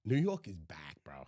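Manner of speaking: conspiratorial whisper; hushed hype. Real, not acted. Co-host confides New York is back, hushed whisper. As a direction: whisper the big news to your buddy. Hyped reveal, dropped to a whisper.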